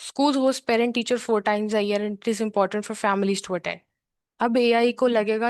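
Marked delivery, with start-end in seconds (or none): 0.1-3.8 slow, even "schools host parent teacher four times a year" with no stall; smooth prepared read. Shown as a demonstration. Teacher showing students a prepared read, slow and steady. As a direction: read straight through, skipping the hard word. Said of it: "अब ऐसे पढ़ो".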